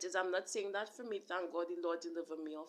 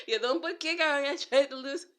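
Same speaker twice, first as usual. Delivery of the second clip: laughing; 5 semitones higher, 7 dB louder than usual. Real, not acted. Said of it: "I'm laughing because I do that".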